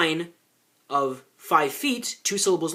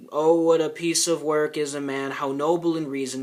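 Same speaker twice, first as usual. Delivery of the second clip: put-on bored kid reading; 3 semitones lower than usual. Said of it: "up there reading Hamlet going".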